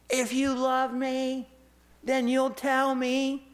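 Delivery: mock tearful plea. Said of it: "She cried".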